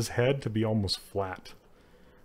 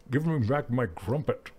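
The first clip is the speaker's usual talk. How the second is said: Sean Connery. Retold or imitated. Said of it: "that was like Sean Connery".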